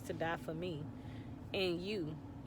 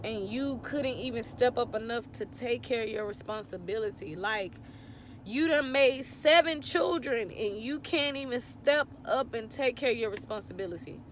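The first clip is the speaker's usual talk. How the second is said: hurt, louder outburst at an absent father; real emotion, voice pushing higher and louder; emotional; 3 semitones higher, 4 dB louder than usual. Real, not acted. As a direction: let the anger and tears rise together. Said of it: "I'm gonna get emotional thinking about it now".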